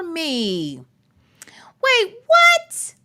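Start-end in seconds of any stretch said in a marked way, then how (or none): 1.8-2.9 high, startled double take; surprised. Real, not acted. Streamer startled by a viewer's message, high and surprised. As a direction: jolt at what you just read.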